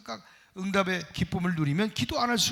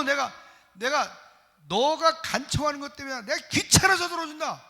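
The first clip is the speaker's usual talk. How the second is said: higher, lightly voiced pleading widow, then an annoyed judge; 5 semitones higher than usual. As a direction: act out the plea, then the judge sighing. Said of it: "이 불의한 재판관이 밤낮 내 원한을 풀어달라고". (과부의 간청과 귀찮아하는 재판관)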